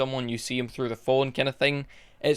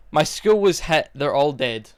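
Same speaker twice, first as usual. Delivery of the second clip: mock newscaster reading a tragedy with no feeling; deadpan news anchor; 4 dB louder than usual. Reviewer mimics the dubbed news anchor's lifeless line, mock deadpan. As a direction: read it like a bored anchor. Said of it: "That's how she says the line".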